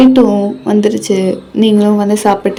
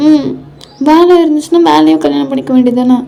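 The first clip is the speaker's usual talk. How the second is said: higher, hurt wife voice; tearful complaint; 5 semitones higher than usual. Acted. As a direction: reproach your husband, close to tears. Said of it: "ஏய், அழுகுறியாடி?". (அழுகை கலந்த செல்லக் கோபம்)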